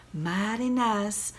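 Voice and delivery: slow, soft purr. Acted. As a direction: purr it like a pleased rodeo queen. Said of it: "purred the rodeo queen".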